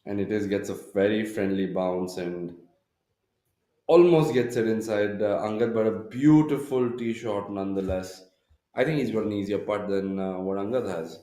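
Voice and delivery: rising excitement as the ball lands; excited golf commentator. Real, not acted. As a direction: call the shot with building energy. Live golf broadcast, shot lands close.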